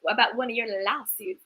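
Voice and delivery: put-on a half-hearted try at a Southern accent; bad Southern accent. Quoting Sutton's line to Erica in a weak Southern accent. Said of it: "I can't do a Southern accent".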